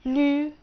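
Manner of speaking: ني and لي said high, loud and clear; teacher models the syllables. Shown as a demonstration. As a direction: sound out ني then لي for the class. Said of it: "يبقى هتنطق ني،".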